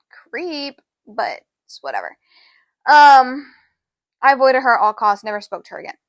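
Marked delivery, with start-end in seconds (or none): 0.1-0.8 whisper. Real, not acted. Disgusted aside about her staring.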